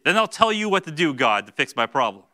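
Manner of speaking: loud, presumptuous ordering; bossy self-reliance. Retold or imitated. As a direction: tell God what to do, cocky. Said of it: "Or, really".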